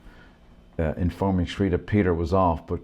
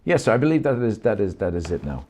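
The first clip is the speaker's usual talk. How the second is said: higher, louder odd clerk voice; a fussy clerk confirming; another clerk; 5 semitones higher, 5 dB louder, faster than usual. Acted. Second clerk character.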